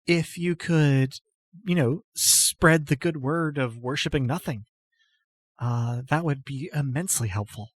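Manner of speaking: put-on a timid goddess-follower greeting an old friend; timid noble lady. GM voices Apatia.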